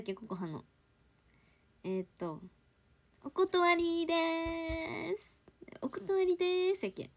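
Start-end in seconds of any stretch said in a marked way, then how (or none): 3.2-6.9 playful sing-out with long held vowels; mock-polite, elongated turn-down; drawn-out refusal. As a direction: stretch the ending out slowly, pitched high. Trying out drawn-out refusal lines.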